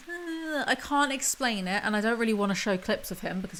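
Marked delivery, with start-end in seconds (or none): 0.1-1.8 soft lilting voice. Retold or imitated. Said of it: "he really puts on this soft voice".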